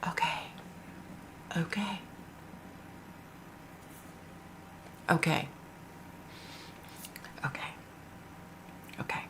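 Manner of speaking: hushed, whispery psychic imitation; barely audible, with long pauses between words; psychic's channeling act. Woman imitates a TikTok psychic summoning an answer, hushed. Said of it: "let me see if I can do it".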